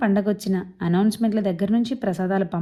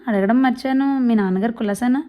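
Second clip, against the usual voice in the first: put-on boastful old man; 4 semitones higher than usual. Old man jokes to Keshava about his health, hearty. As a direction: brag about his iron health, jovial. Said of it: "Godavari యాసలో గబగబా మాట్లాడేస్తుంటారు".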